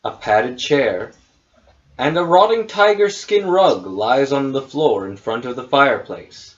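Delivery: measured game master narration; scene setting. Acted. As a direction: read the room description evenly. Game master reads room description.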